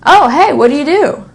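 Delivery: lightly voiced cheerful meeting someone; a light friendly "Oh, hey"; friendly casual question. Casual greeting roleplay.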